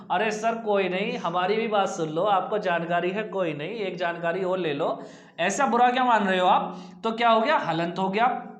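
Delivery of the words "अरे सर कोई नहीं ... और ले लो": lower, easing-down coaxing; placating. Acted. Teacher soothing a pupil who claims to know it, placating. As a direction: gently talk them round, voice dropped.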